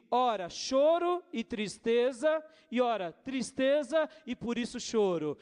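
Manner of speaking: full pastor's sermon voice; preaching. Acted. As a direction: exhort the congregation with force. Preaching to the church.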